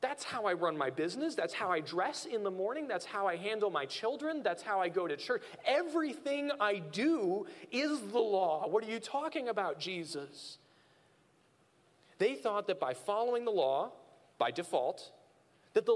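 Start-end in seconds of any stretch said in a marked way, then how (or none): 0.0-10.6 indignant protest. Retold or imitated. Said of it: "They're like".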